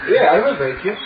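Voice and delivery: put-on light German accent, laughing a bit; a German policeman, half-laughing. Quoted reply, German-sounding.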